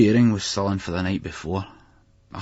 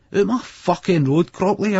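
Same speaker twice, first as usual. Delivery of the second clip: loud, high, slow roar; 12 semitones higher, 5 dB louder than usual. A narrator's reading. Boy roaring at the dog blocking the stairs, loud roar. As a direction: bellow at the dog to move. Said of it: "I roared at him".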